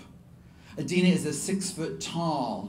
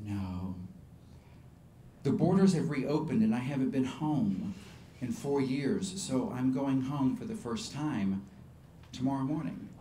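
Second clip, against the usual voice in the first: subdued reply; 2 semitones lower, 5 dB quieter than usual. Retold or imitated. Refugee telling of going home, subdued. Sombre refugee answers the singer.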